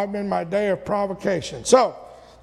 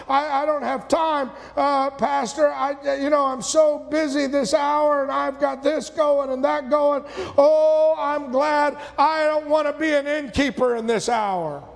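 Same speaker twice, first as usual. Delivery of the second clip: higher, flustered excuse to the pastor; busy excuse-maker; 5 semitones higher than usual. Retold or imitated. Busy churchgoer excusing himself to the pastor, flustered. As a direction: brush off the pastor, too busy. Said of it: "and you go".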